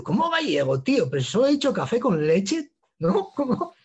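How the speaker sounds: mock puzzled protest, rising at the end; retold bafflement. Customer baffled at being called Galician, mildly incredulous retelling.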